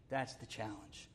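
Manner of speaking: quiet echo. Shown as a demonstration. Preacher softly repeating the challenge to the congregation, quiet echo. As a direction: drop the voice and say it again to yourself.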